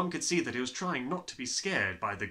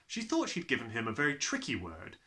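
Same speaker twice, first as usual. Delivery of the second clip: ordinary delivery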